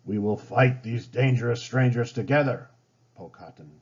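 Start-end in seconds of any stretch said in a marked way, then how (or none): 0.1-2.7 rallying chief. Acted. Chief rallies his people.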